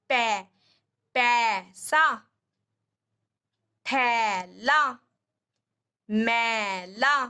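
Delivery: very slow पैसा, थैला, मैला, कैसा, जैसा with a drawn-out ऐ; ai matra words demo. Shown as a demonstration. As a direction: stretch the ऐ in पैसा and थैला for a child. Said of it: "ए की sound आती है।". (ऐ की मात्रा बहुत धीरे खींचकर)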